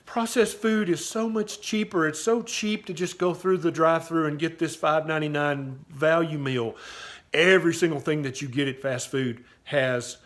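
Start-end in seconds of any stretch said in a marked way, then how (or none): 0.1-6.8 mocking quote. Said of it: "when people say".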